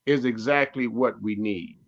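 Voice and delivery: normal talking voice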